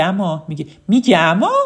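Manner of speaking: Isfahani lilt on اما, rising; Isfahani accent. Shown as a demonstration. Teacher demoing an Isfahani saying اما. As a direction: mimic how an Isfahani says اما.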